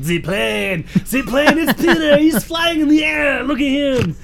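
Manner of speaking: put-on high, loud gushing girl voices; excited girls. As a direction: shriek as the helicopter lands. Girls voiced spotting Peter's helicopter.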